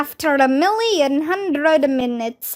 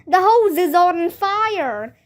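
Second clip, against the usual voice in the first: higher alarmed shout; 5 semitones higher than usual. Acted. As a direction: yell the bad news. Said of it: "shouted another firefighter".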